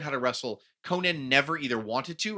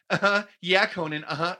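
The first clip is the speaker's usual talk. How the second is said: higher placating mock agreement; mock humouring; 5 semitones higher, 4 dB louder than usual. People trying to get him to leave, mock placating agreement. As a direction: act out humouring a bore. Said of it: "things that people just go".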